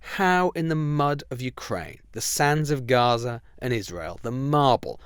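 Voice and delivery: measured broadcast narration, rising and falling for drama; scripted intro read. Acted. Host introducing his guest to listeners, as a polished broadcast read. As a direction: read it like a polished radio opener.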